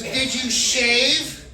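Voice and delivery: slow, drawn-out demand as a stern nurse; lightly acted angry interrogation. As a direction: stretch it out like a cross nurse. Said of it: "she's an angry nurse".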